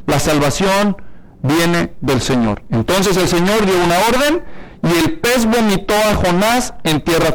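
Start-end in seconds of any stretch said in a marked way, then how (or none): 0.1-2.6 slow, weighty, dropping low on each word; slow solemn emphasis. Shown as a demonstration. Preacher stressing the key verse to the congregation, slow and grave. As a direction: let the key verse sink in slowly. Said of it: "Este es el versículo clave".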